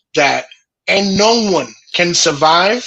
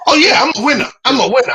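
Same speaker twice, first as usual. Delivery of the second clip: sarcastic shout; 6 semitones higher, faster than usual. Real, not acted. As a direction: shout it with bitter irony. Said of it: "ironic shout of winning".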